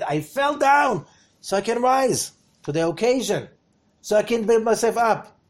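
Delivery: high, loud, eager inner voice; an excited believer cheering himself on; excited self-talk. Acted. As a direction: sound thrilled to have fallen. Voices excited gym-goer's thoughts.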